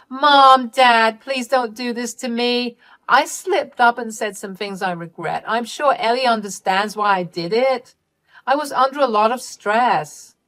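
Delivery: high, loud cry easing into pleading; desperate begging. Acted. Daughter begging her parents not to disinherit her, high and desperate. Daughter begs over the will.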